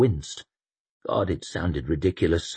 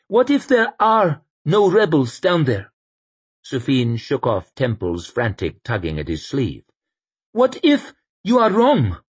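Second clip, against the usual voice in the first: put-on high, raised voice of a pleading young priest; anxious young priest; 8 semitones higher, 5 dB louder than usual. Sufin challenging the Inquisitor, high and anxious. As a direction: press the question, higher and louder.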